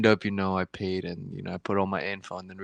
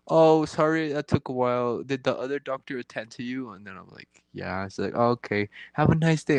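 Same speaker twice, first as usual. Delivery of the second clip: imitating nurse; 4 semitones higher than usual.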